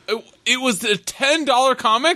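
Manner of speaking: high laughing question; laughing disbelief. Real, not acted.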